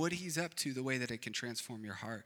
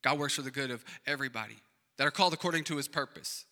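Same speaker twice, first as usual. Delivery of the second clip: fast, offhand recital; faster than usual. Shown as a demonstration. Pastor mocking how people skim the familiar verse, fast and offhand. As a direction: rattle it off quickly like a verse everybody knows. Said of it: "It's like, okay, cool".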